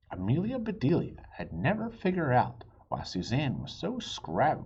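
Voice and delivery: lively read-aloud for little listeners; storybook reading. A narrator's reading. Dad reading a chapter book to his kids, animated. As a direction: read it like bedtime story time.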